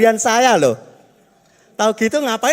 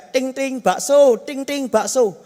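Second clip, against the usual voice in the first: slow sing-song street vendor cry, ting ting; eager meatball seller call; 3 semitones higher, slower than usual. Retold or imitated. Meatball seller passing the neighbour's house, slow sing-song hawker call. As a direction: call out bakso like a cheerful hawker. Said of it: "semangat banget".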